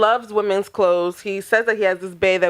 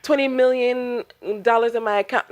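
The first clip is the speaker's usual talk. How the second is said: mock British Nigerian accent; 3 semitones higher, faster than usual. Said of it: "he's just like".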